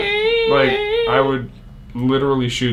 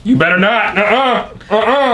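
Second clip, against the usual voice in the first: playful refusal; 9 semitones higher, 5 dB louder than usual. Acted. Playful refusal, teasing argument.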